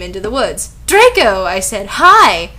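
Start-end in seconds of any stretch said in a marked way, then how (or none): 0.9-1.4 higher, louder acted greeting call. A narrator's reading. Narrator spotting Draco in the woods, calling out. 2.0-2.5 high, loud, acted hello; eager greeting. A narrator's reading. Narrator greeting Draco, in an eager high call.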